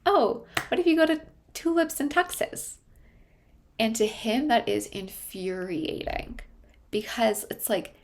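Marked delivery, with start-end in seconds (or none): 0.1-2.8 much higher and louder, sing-song cheery put-on; mock chipper mom. Therapist mimicking the mom's cheerful suggestion, mock chipper. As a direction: parody a clueless upbeat mom. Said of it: "So she's like".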